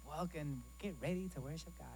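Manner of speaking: light woman's welcome voice; man doing a lady's greeting. Acted. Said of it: "that's my lady voice".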